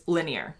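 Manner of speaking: "linear" squeezed into two syllables, LIN-yer; "linear" the American way, LIN-yer. Shown as a demonstration. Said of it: "like two syllables".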